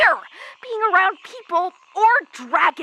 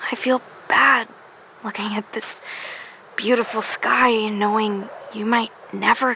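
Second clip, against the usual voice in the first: sad; 7 semitones lower than usual. Acted. Mourning trapped friend, sighing.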